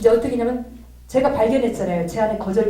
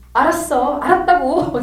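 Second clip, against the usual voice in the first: raised, louder irritated comeback; retold exasperated retort, higher and louder; angry retort; 4 semitones higher, 4 dB louder than usual. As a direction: act out snapping back in a huff. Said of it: "제가 이제 막 화를 내면서".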